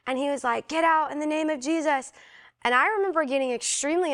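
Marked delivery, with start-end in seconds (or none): 0.7-2.1 retold exorcism command. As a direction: imitate a deliverance minister casting out.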